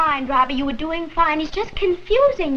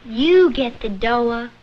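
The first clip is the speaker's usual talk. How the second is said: slow Southern-style threat; mock Southern drawl; 4 semitones lower, slower than usual. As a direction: stretch it out as a Southern warning.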